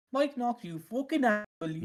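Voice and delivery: mock Irish farmer. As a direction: try the farmer line. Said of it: "I need to hear that in the farmer voice".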